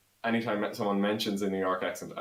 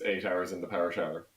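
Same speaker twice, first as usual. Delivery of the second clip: generic northern Irish accent on the catchphrase. Shown as a demonstration. Giving a sample phrase, generic northern accent. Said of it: "a generic northern one".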